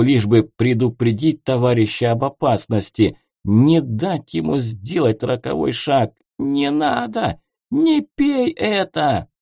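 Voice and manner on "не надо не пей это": higher, slow pleading cry; desperate plea. A narrator's reading. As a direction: beg him to stop. Gerent warns friend.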